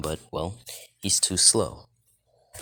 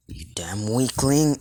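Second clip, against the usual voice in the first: higher-pitched, angry insult; acted contempt; 5 semitones higher, 3 dB louder than usual. Rei insulting Issei mid-confrontation, mildly angry. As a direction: throw the insult in raised pitch.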